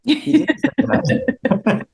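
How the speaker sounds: put-on slow, high German accent. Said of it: "or in the German accent".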